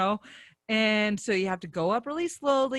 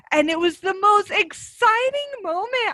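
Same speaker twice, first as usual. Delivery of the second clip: high-pitched, louder burst of excitement; relived thrill; 12 semitones higher, 5 dB louder than usual. Retold or imitated. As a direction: tell it bursting with excitement, voice shooting up. Reliving thrill among the sharks.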